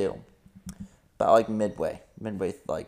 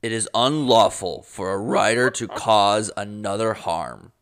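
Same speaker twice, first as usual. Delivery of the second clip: louder, formal recitation of the law; mildly official proclamation voice; Codex voice; 5 dB louder than usual. Pretend. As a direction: read it like a stern official rulebook. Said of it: "I have to get my Codex voice".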